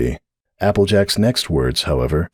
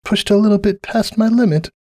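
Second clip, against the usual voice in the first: high, strained admission; hoarse; 13 semitones higher than usual. A narrator's reading. Cupcake after her breakdown, mildly hoarse. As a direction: speak as if it hurts. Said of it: "Her voice was hoarse".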